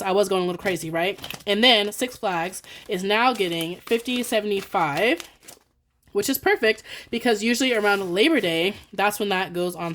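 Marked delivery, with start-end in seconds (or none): 1.5-5.2 slow, measured pace; deliberately slow down the words; trying to talk slower. Real, not acted. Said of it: "try to talk slower".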